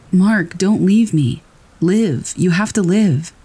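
begging him not to go, drawn out; retold desperate yell. Narrator yelling at friend Mark to stay: strained plea. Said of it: "I yelled".

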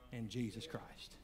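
soft, breathy whispered close; whispered plea. Real, not acted. Preacher whispering the name at the close of the altar call. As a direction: drop to a hush on the name.

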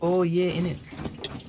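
slow, drawn-out British "innit"; mock British accent. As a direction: put on a cringey British accent. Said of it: "Don't try and do a British accent".

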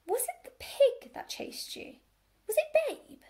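high, insistent questioning; exasperated high-voiced query; pointed questioning. A narrator's reading. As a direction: press the question, pitched right up. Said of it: "She put the question differently".

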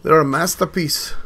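loud, proud announcement in a put-on voice; loud admiring. Gamer admiring vehicles, loud proud declaration. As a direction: show off the creation out loud.

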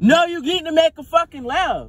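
shouting a correction; loud, furious demand; angry yelling. Acted. Couple fighting in car.

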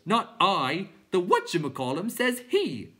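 clown creature voice. A narrator's reading.

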